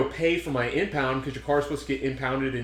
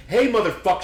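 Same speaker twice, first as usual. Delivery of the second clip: higher, louder retold angry yell; imitated cussing out; 7 semitones higher, 6 dB louder than usual. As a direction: imitate an irate caller cussing someone out. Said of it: "she was cussing me out".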